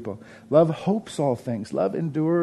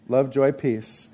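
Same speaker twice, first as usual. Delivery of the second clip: slow listing; 2 semitones lower, slower than usual. Shown as a demonstration. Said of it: "The first three are one syllable".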